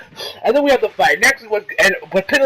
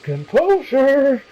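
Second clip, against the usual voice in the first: drawn-out prim reminder, pitched higher on the last word; calm Whis reminder; 5 semitones higher, much slower than usual. Retold or imitated. Reviewer voices Whis calming Beerus, slow prim drawl. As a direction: stretch the word composure slowly, prim and unbothered. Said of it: "Whis is like".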